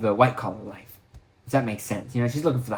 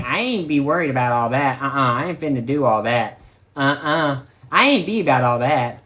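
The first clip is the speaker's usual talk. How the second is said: sassy lady impression. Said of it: "the way they talk sometimes".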